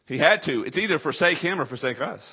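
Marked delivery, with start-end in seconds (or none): 0.1-0.6 forceful. Acted. Repeated answer, second take forceful.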